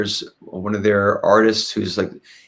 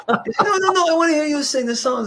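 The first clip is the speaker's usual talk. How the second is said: voicing the producer. Alessandro voiced in retold story.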